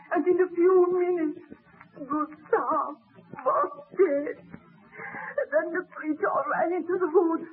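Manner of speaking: a grieving voice breaking into crying on some lines; tearful widow. Acted. The widow tells the baron how her husband was killed, weeping. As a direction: tell it through sobs, still in shock.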